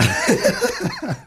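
very high pained giggle; high squeaky laugh. Real, not acted. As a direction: squeal a laugh through the heat. Laugh after hot bite.

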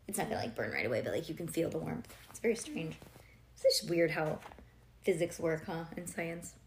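usual speaking voice

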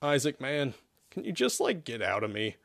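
soft, weary sigh of a plea. Acted. Zack pleads with his possessor, sighing. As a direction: sigh it out softly. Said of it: "Zack sighed".

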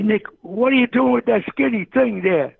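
high-pitched, stretched-out mock holler; imitated yell. A friend yelling at the coach from the next court, imitated yell. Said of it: "he yells out at me".

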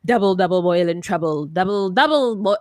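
low, rhythmic witchy chanting, lightly mocked; mock incantation. Host mimicking what she first heard, mock incantation. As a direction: intone it like a spoof spell. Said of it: "Is he doing an incantation".

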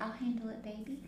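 soft doting caregiver voice; sweet grandma voice. Retold or imitated. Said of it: "she had that grandma voice".

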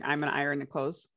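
iron said as one syllable, "ai-rn"; her way of saying iron. Shown as a demonstration. Friend showing how she says iron. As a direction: say iron with a soft, barely-there R. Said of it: "everyone says I don't say that right".

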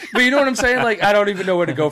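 loud, high, really cracking up; laughing. Real, not acted. Cracks up at own impression.

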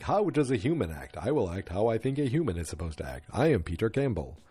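lightly mimicked phony, smarmy man; mock self-important phony; Pete Campbell. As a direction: act out imitating a normal human. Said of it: "phony, smarmy self".

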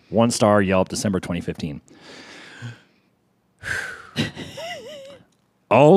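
angry reviewer. Acted. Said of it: "You're gonna make me break character".

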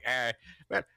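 botched commentator impression; half-hearted wrestling commentator imitation. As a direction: attempt an announcer voice and miss. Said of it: "why did I do that voice for J R".

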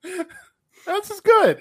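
very high, slow cartoon Canadian; Canadian accent. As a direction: stretch it out, mock Canadian delight. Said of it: "talking like this".

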